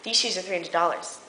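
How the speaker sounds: soft, low retelling of a quote; retold group line. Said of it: "all of them at the exact same time".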